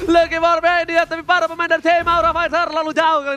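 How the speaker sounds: high loud hype shouting; fighting game announcer. Acted. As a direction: scream the triple kill. Caster peak hype moment.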